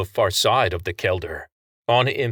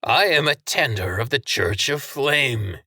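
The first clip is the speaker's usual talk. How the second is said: raised, proclaiming voice; roaring to crowd; 5 semitones higher than usual. A narrator's reading. Franks proclaiming to the crowd and cameras. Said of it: "turning to roar into the crowd".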